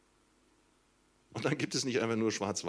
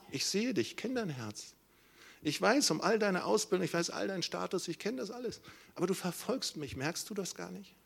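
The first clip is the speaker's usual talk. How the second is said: pleading voice; 6 semitones higher than usual. Acted. Jesus speaking to Saul.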